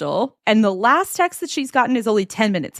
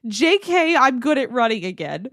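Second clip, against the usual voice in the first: laughing. Retold or imitated. Reading a drunk friend's text.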